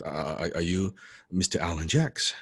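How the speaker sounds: mild, hesitant retold stammer; nervous stammer. Nervous young fan checking who the man is, mild stammer. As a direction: stumble lightly over the first words. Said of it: "like, nervous, so st-, I started".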